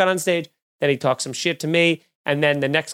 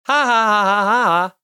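hammed-up fake ha-ha-ha, higher and louder; mock laugh; 4 semitones higher, 4 dB louder than usual. Comic mocking the heckler with a fake laugh. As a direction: laugh at him, pointedly fake.

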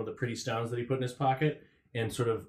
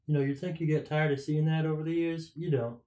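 Blumpkin voice; 5 semitones higher than usual. Acted. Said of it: "and says".

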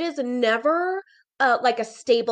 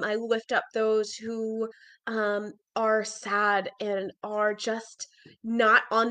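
prayer. Acted. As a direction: pray gently over the listeners. Leads an opening prayer.

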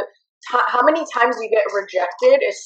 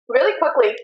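talking through a mouthful; words round a bite of food; mouth full; 3 semitones higher than usual. Real, not acted. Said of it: "Oh shit, my mouth is full".

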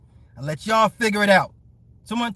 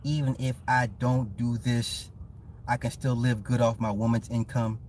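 confidential quoting; 8 semitones lower, 6 dB quieter than usual. Retold or imitated. Let's all huddle up real quick.

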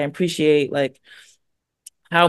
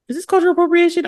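suspicious locals; 11 semitones higher, much faster than usual. Retold or imitated. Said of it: "locals looking at me like".

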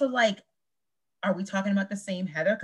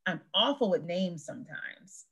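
calm slower alternative; slow suggested line; 2 semitones lower, 4 dB quieter than usual. Shown as a demonstration. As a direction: offer it gently and slowly. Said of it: "My first thought was".

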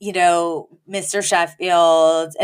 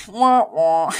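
mock crying. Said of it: "Gracie's like".

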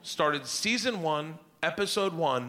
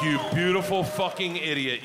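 delighted outburst. Retold or imitated.

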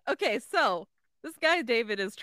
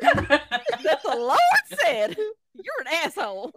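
mock Southern retort; 3 semitones higher, 4 dB louder, slower than usual.

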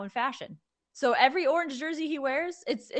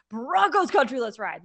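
louder rallying cry, mildly hyped; excited, pumped up; 4 dB louder than usual. Shown as a demonstration. Showing the quarterback how to run onto the field, pumped up. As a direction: punch the first words like game-day hype. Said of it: "say it like you're excited".

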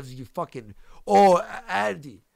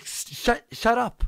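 dismissive shut up; 8 semitones higher, slower than usual. Retold or imitated. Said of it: "Tara LaRosa was like".

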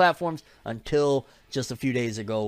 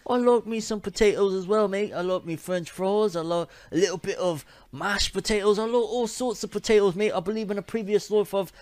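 hammed-up Aussie-style accent, higher in pitch; mock Aussie accent with "mate", pitched up; terrible accent; 7 semitones higher, 3 dB louder than usual. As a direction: badly fake an Aussie accent for a laugh. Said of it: "Yes, that accent is terrible".

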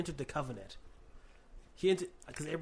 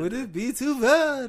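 put-on Ukrainian Jewish accent; 8 semitones higher, 13 dB louder, slower than usual. Echoing in the accent.

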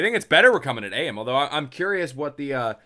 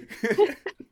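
squeaky high laugh; high giggle. Real, not acted. Host cracking up after mocking the chat, high giggle. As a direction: giggle in the mock voice.

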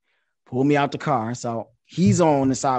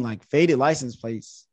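incredulous. Retold or imitated. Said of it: "I'm like".

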